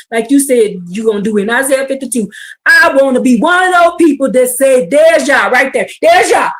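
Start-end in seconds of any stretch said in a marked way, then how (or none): 2.7-6.5 loud shouted 'There's Yah'; joyful shouting at the mountain; shouting praise. Pretend. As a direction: call it out to the mountain. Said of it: "screaming and shouting to the top of my lungs".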